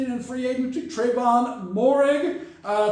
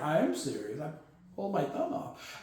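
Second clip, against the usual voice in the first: mock deadpan; 7 semitones lower, 12 dB quieter than usual. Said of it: "And he's like".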